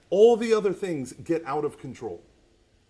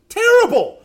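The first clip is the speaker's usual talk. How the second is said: mock wail; 14 dB louder than usual. Daughter's blunt answer quoted.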